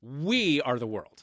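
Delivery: drawn-out, emphatic "We"; very slow line, leaning on "We"; stress on We. Shown as a demonstration. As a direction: set "We" up as the contrast. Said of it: "put into very sharp relief".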